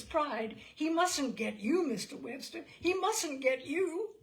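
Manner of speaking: loud, high, anguished begging; desperate pleading. A narrator's reading. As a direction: plead for his friend's safety in rising panic. Frightened man pleading with Webster.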